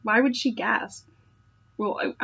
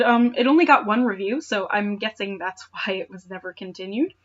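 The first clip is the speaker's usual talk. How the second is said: normal talking voice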